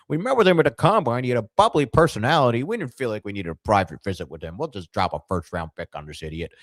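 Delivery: high, loud put-on GM voice fading down into smug dismissal; Dave Gettleman impression. Mocking the Giants GM's draft reasoning, in a high, loud put-on voice. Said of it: "I can't do a Dave Gettleman accent".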